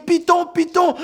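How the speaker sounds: very high, loud frightened shriek; child screaming. Acted. Little girl in the crowd screaming in very high fright. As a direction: shriek the word in terror. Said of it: "la petite fille criait".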